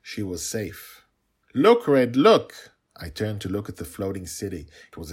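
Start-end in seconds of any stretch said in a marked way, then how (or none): 1.5-2.7 very high, loud eager call; excited child. A narrator's reading. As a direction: urge him to look right now. Girl points excitedly.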